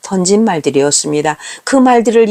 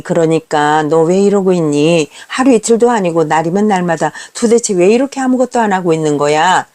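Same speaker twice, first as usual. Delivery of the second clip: pleading reproach; 4 semitones lower than usual. Retold or imitated. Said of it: "애원하듯 비난의 말을 했습니다".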